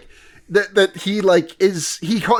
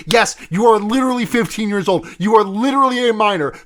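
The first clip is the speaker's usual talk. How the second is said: higher, lightly voiced exasperated teen; exasperated Subaru; 5 semitones higher than usual. Subaru telling Felt to run, exasperated. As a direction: scold her like an annoyed older kid.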